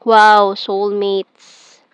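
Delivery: real pleased surprise at a happy card; delighted wow. Real, not acted. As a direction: stretch it out as a thrilled reveal. Reading the soulmates card.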